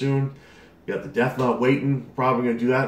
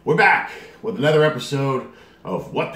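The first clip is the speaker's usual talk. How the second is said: excited greeting; 5 semitones higher, 5 dB louder than usual. Real, not acted. Vlog greeting.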